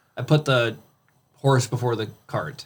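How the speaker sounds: normal talking voice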